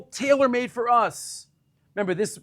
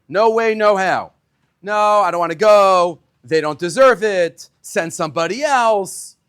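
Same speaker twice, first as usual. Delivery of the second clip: reluctant Moses; 6 dB louder than usual. Retold or imitated. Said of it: "does not want to go down".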